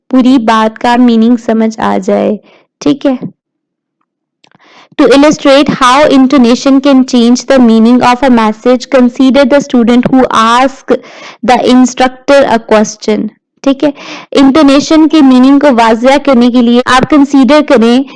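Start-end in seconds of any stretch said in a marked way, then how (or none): 5.0-13.3 slow, measured reading of slide text; slow lecture read-aloud. Acted. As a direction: read the definition out word by word, slowly.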